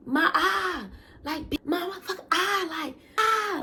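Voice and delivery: hammed-up wail about his eye; imitating the hurt boyfriend's whine; mock whiny boyfriend. Boyfriend whining about hit eye.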